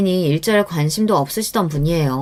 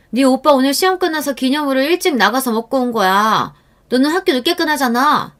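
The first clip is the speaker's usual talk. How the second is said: higher, sarcastic irritated snapping; irritated aunt; 5 semitones higher than usual. Acted. Aunt snapping at niece over the dinner remark, irritated. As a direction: brush her off with annoyance. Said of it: "짜증을 냈습니다".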